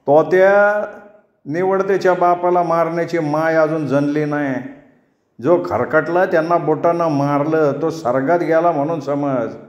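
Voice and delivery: mild rustic bragging; lightly voiced boastful husband. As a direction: puff up and brag back.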